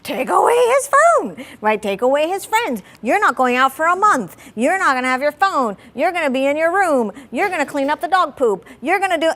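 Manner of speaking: mock-furious mother laying down the law; angry punishments. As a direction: fire off the punishments, fed up. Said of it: "So old Olga would be like".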